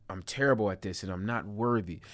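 quick, harsh self-criticism; aggressive self-talk. Shown as a demonstration. Repeating the harsh inner voice for viewers, fast. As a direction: rattle off the put-down harshly. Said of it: "Do you hear how aggressive that is".

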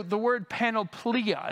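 panoplia said pa-no-PLEE-a, savoured a little; panoplia, stress on PLEE; Greek word panoplia. Shown as a demonstration. Pastor relishes the Greek word for the congregation, stress on PLEE. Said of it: "It's a fun word to say in Greek".

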